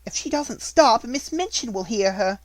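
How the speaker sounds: anxious cry. A narrator's reading. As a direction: blurt it out in a panic. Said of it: "cried Jessie".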